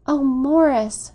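long, drawn-out tender exclamation, pitched high; tender cry. A narrator's reading. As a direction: cry the name out slowly and lovingly. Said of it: "she cried, with a long, tender murmur".

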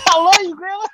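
high, sugary fake sweetness; butter her up, pitched high; sweet high voice. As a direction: grandson hugging grandma, high voice.

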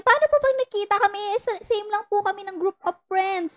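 put-on high, fast, anxious girl's voice; quoting the follower. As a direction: rush it like a worried young girl. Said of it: "Sabi niya".

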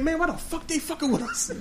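high, put-on indignant voice; mimicking brother. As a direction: play the aggrieved little brother. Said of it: "He's like".

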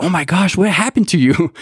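high, alarmed mock wife voice; shocked wife. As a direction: imitate his wife's startled worry, high. Wife reacts to him crying.

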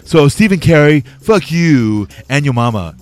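man lightly doing a woman's voice; Lulu voice. Retold or imitated. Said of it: "That's just me doing, uh, your girl Lulu's voice".

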